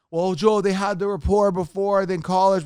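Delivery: hammed-up comment from a doubting fan; mocking viewer. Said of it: "Blah. Shut up".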